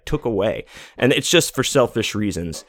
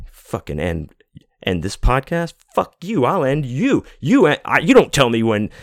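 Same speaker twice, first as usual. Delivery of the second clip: retold outburst, pitched up, half-played fury; mock angry rant; 4 semitones higher than usual. Fan fuming that the podcast is ending, mock angry. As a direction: act out the rage, not fully shouted. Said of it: "you know, I got angry".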